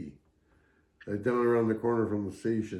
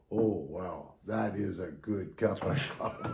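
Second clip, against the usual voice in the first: mock savouring; 3 semitones lower, 5 dB quieter, slower than usual. Bill fooled, savouring the cheap coffee.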